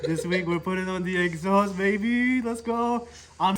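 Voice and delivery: hyped up. Real, not acted. Hype vlog intro.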